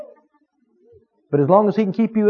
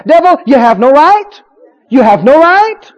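loud, high rebuke to the devil; preacher commanding the devil emphatically; emphatic; 7 semitones higher, 7 dB louder than usual. Pretend. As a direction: declare it firmly and loud. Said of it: "Tell the devil emphatically".

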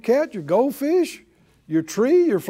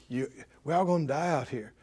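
low, soft, fast tempting murmur; soft sly whisper; 6 semitones lower, 9 dB quieter, faster than usual. Acted. Devil whispering fear to the people, low and soft.

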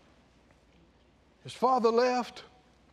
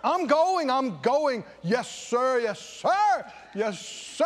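mock shouting and shaking; 2 semitones higher, slower than usual. Preacher playing the son shouting his promise. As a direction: shout it like a worked-up churchgoer. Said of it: "Shouting and shaking".

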